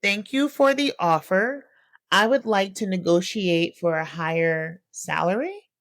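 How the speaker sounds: slow, unsure repeating back; confused. Retold or imitated. New hire to supervisor, slow and confused. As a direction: read it back like a puzzled question. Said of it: "With a, with a level of confusion. That's how I said it".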